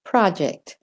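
"project" in American, with an open "prah"; American vowel in "project"; American accent. Shown as a demonstration. Teacher models for accent learners, American "project". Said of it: "practicing the American accent".

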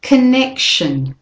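"connection" slow, weak con, stress on nec; slow model word. Shown as a demonstration. Teacher introduces next list word, slow. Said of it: "And the next word".

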